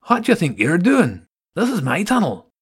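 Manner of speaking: high, loud indignant rat voice; furious rat defending his tunnel; angry rival rat. Acted.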